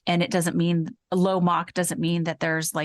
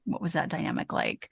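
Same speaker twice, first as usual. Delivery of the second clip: quiet wondering; 6 dB quieter than usual. Real, not acted. Wondering aloud, trailing off.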